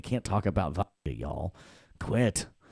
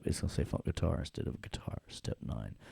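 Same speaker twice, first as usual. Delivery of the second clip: muttered aside; 4 semitones lower, 6 dB quieter than usual. Real, not acted.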